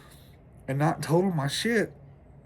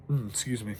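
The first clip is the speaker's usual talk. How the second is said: burping; 3 semitones lower, 4 dB quieter than usual. Real, not acted. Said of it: "Last night's supper is coming back up".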